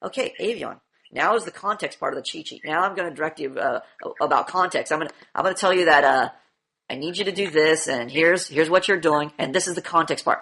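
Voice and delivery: low, soft droning lecture voice; mock a teacher who over-explains; droning preface. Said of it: "a lot of you guys preface and say".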